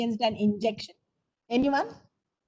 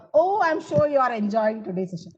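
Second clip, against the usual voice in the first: exclamatory statement; 3 dB louder than usual. Shown as a demonstration. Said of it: "example for an exclamatory sentence".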